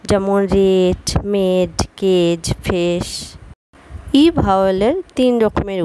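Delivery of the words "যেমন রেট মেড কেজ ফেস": রেট, মেড, কেজ, ফেস said with a long 'ay' vowel; slow, clear 'ay' in রেট and মেড; long a sound. Shown as a demonstration. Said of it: "এ উচ্চারণ হয়". (রেট মেড কেজ ফেস-এ লম্বা এ ধ্বনি)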